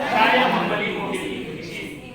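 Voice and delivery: saya pushed forward and rising; stress on saya. Shown as a demonstration. Preacher demos sentence stressing saya. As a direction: lean on saya. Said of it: "penekanannya saya".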